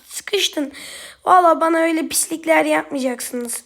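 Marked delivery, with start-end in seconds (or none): 0.0-0.7 gloating whisper; quiet whispered taunt. Real, not acted. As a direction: breathe it out, savoring the trap. Cornering an enemy.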